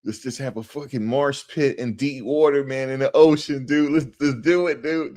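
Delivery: high-pitched hyped-up dude impersonation; imitated party bro. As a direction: egg on your mates like a wasted bro. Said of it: "They do that".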